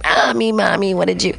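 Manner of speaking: a hint of a pestering kid; child calling mommy. Imagined kid calling to a mother at home, lightly childlike.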